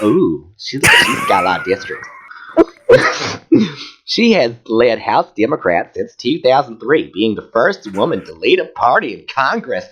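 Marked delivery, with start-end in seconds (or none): 4.0-9.8 campy Southern reading voice; lilting hammed-up Southern accent; put-on Southern accent. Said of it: "keep reading that voice".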